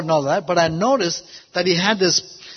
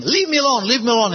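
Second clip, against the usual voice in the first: high-pitched mild mock scream; retold scream; 5 semitones higher, faster than usual. Man screaming at the pastor before running out, mild imitated scream. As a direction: imitate his scream without much volume. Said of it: "he started screaming".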